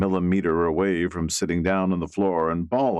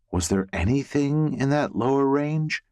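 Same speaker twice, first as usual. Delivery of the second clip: Elizabeth asking; 7 semitones higher than usual. Acted. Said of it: "she asks".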